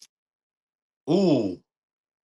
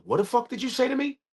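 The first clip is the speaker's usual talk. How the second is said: angry; 11 semitones higher than usual. Retold or imitated. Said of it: "He goes".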